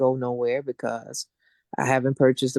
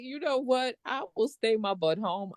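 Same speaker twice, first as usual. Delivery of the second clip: fed-up resignation; 8 semitones higher, 5 dB quieter than usual. Retold or imitated. Giving up on the trip.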